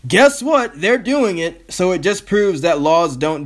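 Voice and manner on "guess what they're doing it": sarcastic gotcha. Real, not acted.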